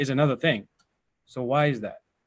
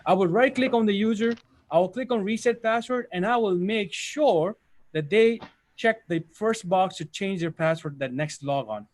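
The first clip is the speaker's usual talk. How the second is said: model interview wording. Shown as a demonstration. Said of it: "focus with this wording right here".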